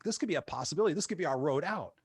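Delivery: a touch of eager lift in the voice; mildly excited, hopeful rush; retold excitement. Seeing a way out of the motel, mildly excited. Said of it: "And I got excited".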